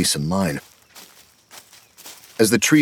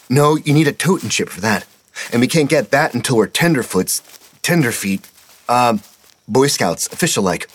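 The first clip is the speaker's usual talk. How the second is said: put-on higher, eager boy voice; young boy Petey; 6 semitones higher than usual. A narrator's reading. Petey apologizing to his scoutmaster, higher boyish voice. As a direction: voice the kid, breathless and sorry.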